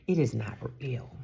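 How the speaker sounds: lightly imitated Nigerian accent; a hint of Nigerian accent, firm. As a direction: quote the client in a mild Nigerian accent. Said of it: "in her very thick Nigerian accent".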